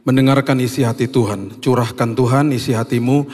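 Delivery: earnest congregational prayer; leading a church in prayer; spoken prayer. Real, not acted. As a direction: pray aloud on behalf of the congregation, phrase by phrase. Leads an opening prayer.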